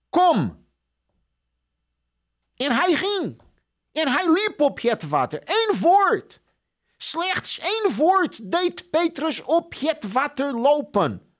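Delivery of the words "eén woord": ordinary talk, nothing marked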